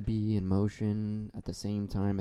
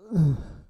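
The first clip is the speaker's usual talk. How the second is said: mock emotional sigh; 6 semitones higher, 7 dB louder than usual. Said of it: "I just got so emotional".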